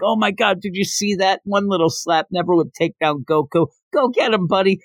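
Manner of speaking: high-pitched excited cheering from the crowd; hype man. Retold or imitated. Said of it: "the big hype man for Goku".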